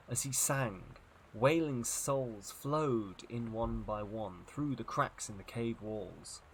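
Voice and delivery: measured storybook reading with dramatic pauses; story narration. A narrator's reading. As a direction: narrate an eerie adventure tale. Reads a story aloud.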